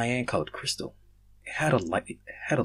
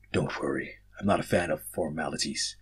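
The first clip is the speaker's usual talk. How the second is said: with a smile; 5 semitones lower, 5 dB quieter than usual. Acted. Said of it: "Chrome said with a smile".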